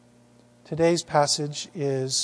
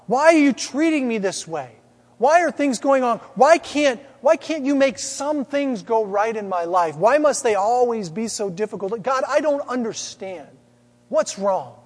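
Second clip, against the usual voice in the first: raised, higher pleading complaint; anguished cry of why, raised and high; crying out to God; 5 semitones higher, 4 dB louder than usual. Retold or imitated. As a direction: call up to heaven in frustration, louder. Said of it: "begins to cry out to God".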